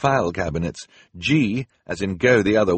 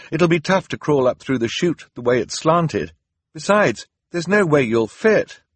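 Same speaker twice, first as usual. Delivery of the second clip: put-on high anxious boy's voice; worried Klaus; 7 semitones higher, 5 dB louder than usual. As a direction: argue his fear to his sister. Klaus voice held in dialogue.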